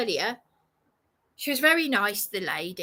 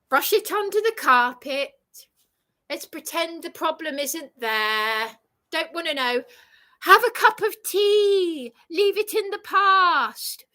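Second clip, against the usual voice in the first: lightly sent-up British denial; mildly hammed-up British brush-off; mock stiff-upper-lip; 4 semitones higher than usual. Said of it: "That's the British way".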